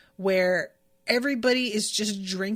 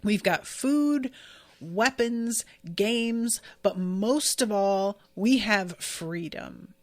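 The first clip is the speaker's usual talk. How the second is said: slow, grand theatrical announcement; a hint of a dramatic cabaret host; dramatic stage speech; slower than usual. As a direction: proclaim it like a showman on stage. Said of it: "in the most dramatic fashion you can imagine".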